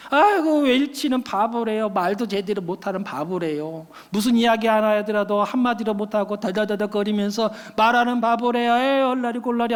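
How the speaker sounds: mildly mocking playground taunt; children's teasing. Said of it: "애들이 막 놀리더라고요".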